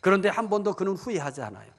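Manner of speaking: ordinary talk, nothing marked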